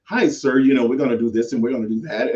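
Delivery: quick, light polished politeness; polite proper talk. Shown as a demonstration. Greeting someone in a polished proper voice. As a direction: sound proper and nice, hurried. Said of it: "I can come to you and be like".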